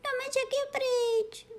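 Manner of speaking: very high, slow, lamenting kitten voice; cat wailing that their house is gone. Acted. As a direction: wail it like a heartbroken little cat. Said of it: "naříkala kočička".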